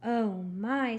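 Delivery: a syrupy little "oh, my"; too sweet voice. Acted. Gladys refusing Eugenia's return, too sweet. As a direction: coo it with mock sympathy. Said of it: "said Gladys in her too sweet voice".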